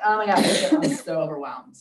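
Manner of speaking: loud mock fluster; mock overwhelmed. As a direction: play up being swamped, mockingly. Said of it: "now they're, like, overwhelmed".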